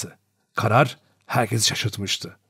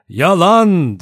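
loud, higher cry of outrage; shouted denial; 6 semitones higher, 6 dB louder than usual. A narrator's reading. General MacArthur protesting the judge's accusations, shouting. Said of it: "diye bağırdı".

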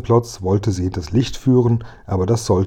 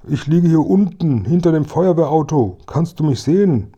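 high-pitched calling voice; anxious captive policeman; 7 semitones higher than usual. Acted. Tied-up officer calls to Kasperl from behind the fire engine, urgent. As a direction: call up high to someone at the window.

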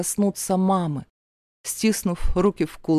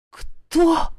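much higher startled gasp; shocked gasp; 11 semitones higher, 3 dB louder than usual. A narrator's reading. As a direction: gasp it out in disbelief. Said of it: "Охнула я".

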